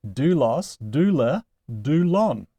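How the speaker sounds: "Doulos, doula, doulon" each stressed on "dou"; "Doulos, doula, doulon" as separate forms, front-stressed; stress on second-to-last syllable. Shown as a demonstration. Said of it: "on its second to last syllable".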